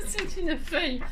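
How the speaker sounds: words spoken through a giggle; laughing. Real, not acted. To her viewers, amused at her own pun, laughing. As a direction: laugh at your own joke as you speak.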